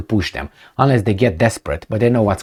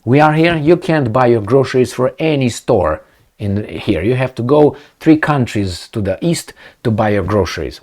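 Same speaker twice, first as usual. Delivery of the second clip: raised voice, calling out to Gigi; telling it straight; 2 semitones higher than usual. Retold or imitated. Speaker lecturing Gigi about groceries, raised and insistent. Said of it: "It's like I tell you".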